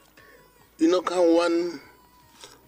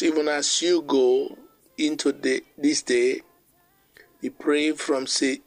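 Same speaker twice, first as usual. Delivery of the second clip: closing prayer; 2 semitones lower than usual. Real, not acted. Preacher closing the morning message in prayer, subdued prayer. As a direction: pray over the listeners in measured phrases.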